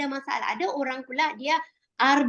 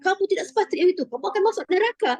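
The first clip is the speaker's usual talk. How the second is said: harsh preacher; 6 semitones higher, faster than usual. Retold or imitated. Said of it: "kalau yang".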